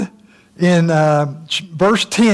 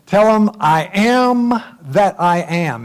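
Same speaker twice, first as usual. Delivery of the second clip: voice of God; 3 semitones higher, slower than usual. Acted. God answers Moses.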